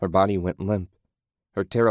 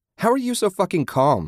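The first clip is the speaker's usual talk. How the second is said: shouted, pitched very high; 11 semitones higher than usual. Susan, as Ted leads her by the hand, shouting at both companions. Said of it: "She shouted".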